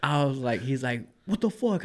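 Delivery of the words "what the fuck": high, softish mock outrage; retold indignation. Teller quotes the other driver in the argument, mock indignation. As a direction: imitate an indignant driver without shouting.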